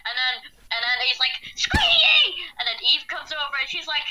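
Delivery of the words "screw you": high squeaky yell of a friend; silly high-pitched mock yell; mock shout. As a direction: screech it like an angry kid. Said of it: "Please stop the voices".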